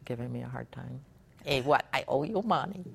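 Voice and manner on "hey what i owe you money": put-on a light Hawaiian pidgin accent, teasing back; playful pidgin comeback to coworkers. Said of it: "I'll do a pidgin accent".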